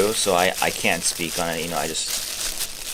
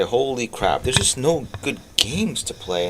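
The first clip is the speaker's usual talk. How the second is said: higher-pitched, drawn-out exclamation; retold dismay; 5 semitones higher than usual. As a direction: voice your own exasperated thought, stretched out. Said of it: "I was thinking today".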